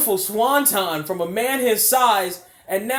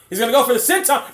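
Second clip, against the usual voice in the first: higher, louder, fast call; rising excitement; 4 semitones higher, 4 dB louder, faster than usual. Real, not acted. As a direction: build the hype. Same call repeated, rising.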